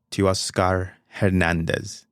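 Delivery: Teoscar Hernandez said slowly, every syllable drawn out; careful name pronunciation. Shown as a demonstration. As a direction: stretch out "Teoscar Hernandez" to get it right. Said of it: "make it sound like that".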